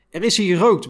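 guard roaring at the smoke-filled classroom; roared. Retold or imitated. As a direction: bellow it out, furious. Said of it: "brulde hij tussen twee hoeststoten door".

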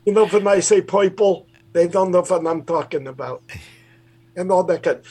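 high Bronx puppet greeting a friend; Toisty greets Mitch in Bronx accent. Acted. Puppet Toisty greets host Mitch, high and Bronx. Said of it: "He's from the Bronx".

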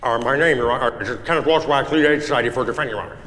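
slurred, garbled mumbling; mumbled gibberish. Acted. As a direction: mush the words together. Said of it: "I have no idea what you're saying".

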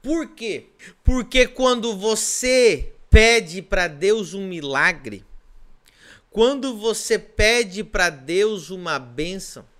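loud, slow, rising preacher's cry; full-force preaching. Acted. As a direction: drive each line home from the pulpit. Preacher builds to climax.

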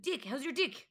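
put-on Kiwi accent. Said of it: "But in a Kiwi accent".

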